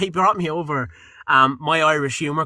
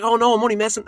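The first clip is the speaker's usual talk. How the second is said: higher-pitched retold reassurance; apologetic backtracking; 7 semitones higher, faster than usual. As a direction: backtrack hastily from your own joke, pitch raised. Retold backtracking after a joke lands badly.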